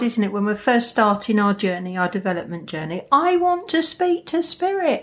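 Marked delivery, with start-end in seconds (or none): 3.1-5.0 higher-pitched eager plea; mock eagerness, pitched up; eager beginner. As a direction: voice a keen beginner's wish. Acting out an eager beginner's wish.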